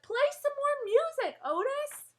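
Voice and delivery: high, loud plea; calling out. Acted. Girl calling to Otis over the animals. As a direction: call out over the din. Pleading shout amid chaos.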